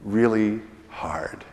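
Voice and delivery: slow whisper to show how faint it is. Shown as a demonstration. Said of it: "hear the gentle, quiet voice".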